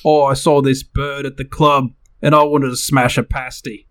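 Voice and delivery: put-on British lad accent. Host shows co-host the phrase in use, British accent. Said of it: "can you use it in a sentence with a British accent".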